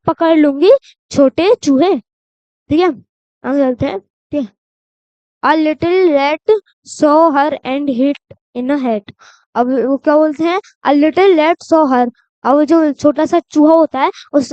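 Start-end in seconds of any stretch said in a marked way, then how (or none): 5.4-9.1 put-on reading a rhyme to children, word by word; slow, careful read-aloud; slow poem reading. Shown as a demonstration. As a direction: read each word slowly and clearly. Reads the poem slowly.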